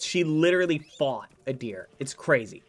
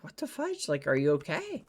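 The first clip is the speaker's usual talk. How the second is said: alarmed; 2 semitones higher than usual. Retold or imitated. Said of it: "and I'm like".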